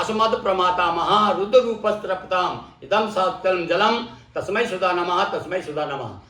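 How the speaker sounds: measured Sanskrit recitation, falling away at the end; teacher's demonstration of a mantra. Shown as a demonstration.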